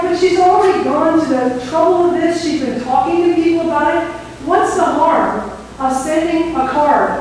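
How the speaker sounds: earnest mock-up of protesting; pleading protest. Retold protest to superior pastor.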